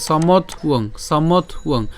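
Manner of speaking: "সমত উয়ং" in two parts, somot and uong; split pronunciation. Shown as a demonstration. Teacher builds the word after the t, split "সমত উয়ং". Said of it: "ত পর্যন্ত উচ্চারণ করার পরে".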